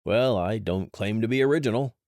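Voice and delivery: cheerful, breezy brush-off; bright, unbothered reply; happy shrug in the voice; happily. Acted. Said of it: "Dash said happily".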